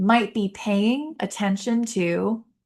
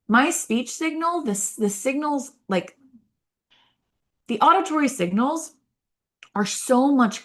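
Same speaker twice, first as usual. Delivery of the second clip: singsong voice; 5 semitones higher than usual. Shown as a demonstration. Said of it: "talk like this".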